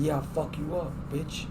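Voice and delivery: very soft imitated threat; low volume. Drunk passenger curses driver as if to himself, low volume. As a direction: mimic a drunk threatening to himself, barely audible. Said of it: "in a low volume".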